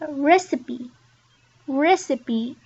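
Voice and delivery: recipe said "res-i-pee", final e voiced; recipe, sound the final e; recipe, three syllables. Shown as a demonstration. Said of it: "three syllables there".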